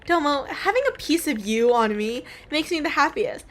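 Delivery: lightly acted gushing sweetheart; devoted girlfriend. Two lovers after a proposal, lightly voiced devotion. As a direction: read lovers' vows with lilting devotion.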